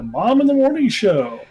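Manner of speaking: show plug. Pretend. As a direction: sell the show title out loud.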